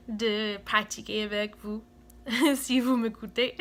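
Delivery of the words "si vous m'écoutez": a laugh bubbling into the words; giggling. Real, not acted. Hoping viewers will listen to her French, giggling. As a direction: laugh shyly as you ask.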